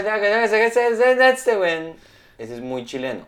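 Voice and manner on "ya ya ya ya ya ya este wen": much higher, louder mock Chilean ya ya wen; hammed-up Chilean rant; exaggerated Chilean accent. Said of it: "con la Chile".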